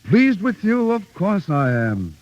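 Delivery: high, emphatic echo of the question; delighted reassurance. Acted. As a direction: throw it back with delight. Coach reassures his pupil.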